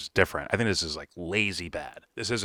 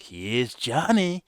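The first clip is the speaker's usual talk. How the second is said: slow, higher "Here's Johnny" in a mock Irish accent; 5 semitones higher, much slower than usual. Imitating McGregor's entrance in a slow mock Irish accent. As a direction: stretch it out like a cocky Irish fighter. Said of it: "but in an Irish accent".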